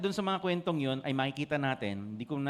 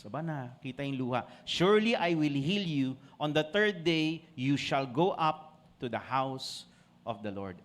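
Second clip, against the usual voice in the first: solemn promise; slower than usual. Retold or imitated. God's promise read solemnly.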